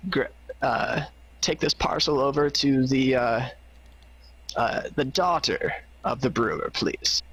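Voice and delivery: high, gentle polite request; sweet old NPC voice. Acted. GM voicing NPC asking favor.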